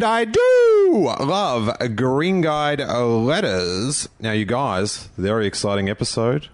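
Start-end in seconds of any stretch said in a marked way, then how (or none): 0.0-4.1 drawn-out, swooping show intro; announcer flourish. Real, not acted. Host opening the letters podcast, drawn-out announcer flourish. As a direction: stretch it out like a podcast catchphrase.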